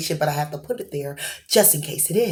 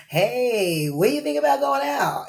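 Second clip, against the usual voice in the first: much higher, softer hopeful ask; shy invitation; 6 semitones higher, 3 dB quieter than usual. Acted. Timid admirer asking someone out, high and soft. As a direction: float the question up, half afraid of the answer. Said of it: "is kinda timid".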